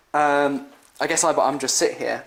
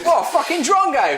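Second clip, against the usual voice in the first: high, loud Australian insult through laughter; Australian accent, loud and laughing; Lockie in Australian accent; 12 semitones higher, 5 dB louder than usual. Retold or imitated. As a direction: crow it like a mocking Aussie. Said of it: "That's exactly what Lockie sounds like".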